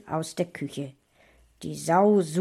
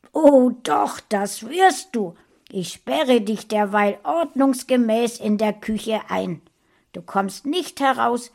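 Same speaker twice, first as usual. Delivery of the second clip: loud, raised, threatening mother; domineering mother; 4 semitones higher, 6 dB louder than usual. A narrator's reading. Mother locking her son in the kitchen, threatening. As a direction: lay down the punishment firmly and loudly. Mother overrules child, locks him in.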